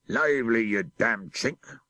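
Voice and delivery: a snarled command; captain's order. Acted. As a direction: spit it at the terrified sailor. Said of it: "said the captain".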